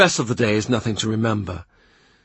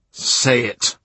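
1 quiet begging. A narrator's reading. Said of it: "He begs her".

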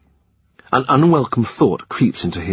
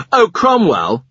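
high, louder call across the room; 8 semitones higher, 4 dB louder than usual. A narrator's reading. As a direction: call him back as he leaves. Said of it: "Henry calls".

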